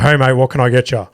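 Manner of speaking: lightly imitated country barman; deep country voice. Barman takes the comedian's drink order, deep country voice. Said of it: "in a deep country voice".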